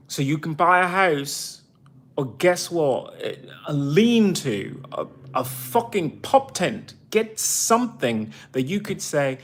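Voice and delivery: a veteran fed up with strangers at her door, ranting angrily; angry rant. Real, not acted. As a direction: let the frustration boil over, pushing every line up and out. Furious rant about VA and intruders.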